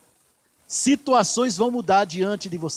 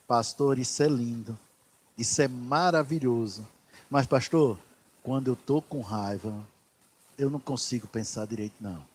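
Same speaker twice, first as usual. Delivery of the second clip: low, soft voice confiding in the pastor; hesitant congregant; 7 semitones lower, 6 dB quieter than usual. Acted. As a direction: speak quietly and lower, as a believer admitting a weakness. (fiel falando baixinho ao pastor, em tom grave)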